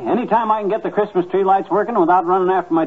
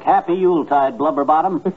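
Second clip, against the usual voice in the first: mock cheery greeting. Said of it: "a cheery welcome like".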